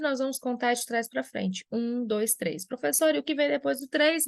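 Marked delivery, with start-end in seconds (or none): 2.7-4.3 lightly voiced student, higher pitch; imagined student's question. Student asking the teacher what follows three, lightly imitated in higher pitch. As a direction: put the question like a curious pupil.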